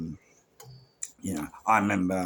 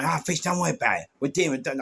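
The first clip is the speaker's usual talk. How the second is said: quick, higher-pitched dismissal; retold brush-off; 6 semitones higher, faster than usual. Busy managers to their security man, hurriedly dismissive. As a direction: imitate a hurried manager waving someone away.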